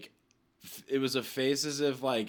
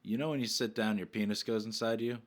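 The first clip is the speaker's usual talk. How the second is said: deadpan question. Shown as a demonstration. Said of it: "look at 'em and say".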